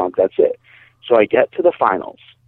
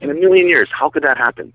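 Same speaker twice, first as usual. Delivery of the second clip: high-pitched exasperated disbelief, replayed; retold incredulity; 6 semitones higher than usual. Storyteller finding the bag strap snagged, incredulous retold outburst. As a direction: relive the baffled exasperation, pitched up.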